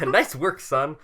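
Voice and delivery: proud dad newsman, hammed up; mock newsman praise; Ron Burgundy line.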